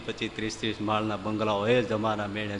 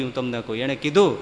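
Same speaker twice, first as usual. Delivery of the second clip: ordinary talk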